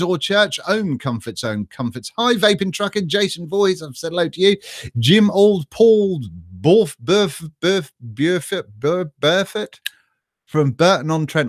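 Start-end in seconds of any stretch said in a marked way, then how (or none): 5.0-9.8 "Burf" tried over and over, slowly, before landing on "Burford"; fumbling a name. Real, not acted. Streamer stumbling to read a viewer's name aloud, halting. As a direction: sound out "Burford" haltingly, syllable by syllable. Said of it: "I should know it".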